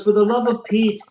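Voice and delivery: a hint of mock annoyance from the coffin; dead man's joke. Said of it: "He goes".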